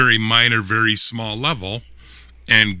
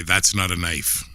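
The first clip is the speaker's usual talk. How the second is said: Crocodile Dundee line; 4 semitones lower, 5 dB quieter than usual. Pretend. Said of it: "Let me just hear you say".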